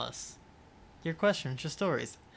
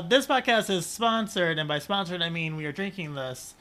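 ad read. Acted. Reading the wine label aloud as a mock ad. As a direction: read the label copy like a sommelier.

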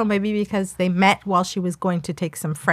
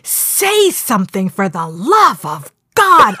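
slow, drawn-out reading of the plea; mock pleading; 4 dB louder, much slower than usual. Co-host reading a viewer comment, slow and pleading. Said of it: "I love the name".

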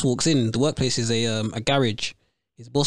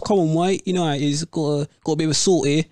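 put-on straight English accent; 3 semitones higher than usual. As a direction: mimic switching into straight English for the boss. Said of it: "you had to drop that Caribbean stuff straight away".

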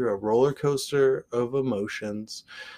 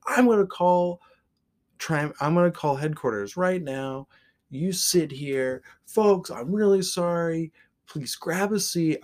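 driver announcement; 6 semitones higher than usual. Retold or imitated.

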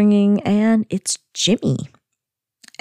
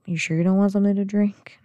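quick, slightly hushed shy offer; timid; 3 semitones higher, faster than usual. Retold or imitated. Darlene shyly offering Jimmy a drink, mock timid. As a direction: imitate someone suddenly shy, hurrying it out. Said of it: "gets all timid".

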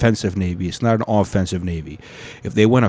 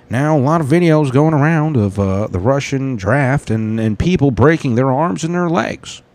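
Philip DeFranco; 3 semitones higher than usual. Acted. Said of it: "when I start doing this Philip DeFranco voice".

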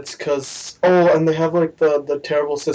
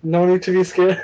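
easygoing put-on New Zealand accent; Korg; 3 semitones higher than usual. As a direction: do a friendly Antipodean alien. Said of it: "I can do a pretty good Korg".

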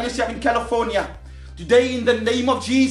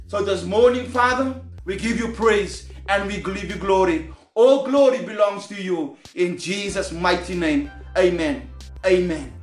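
prayer; 3 semitones lower than usual. Acted. Closing prayer to God.

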